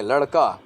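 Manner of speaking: लड़का with a firm retroflex flap, "laṛka"; correct ड़. Shown as a demonstration. Teacher modelling pronunciation, लड़का said distinctly with retroflex ड़. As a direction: give the ड़ in लड़का a clear curled-tongue flap. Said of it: "इसका उच्चारण अगर हम teacher ही गलत".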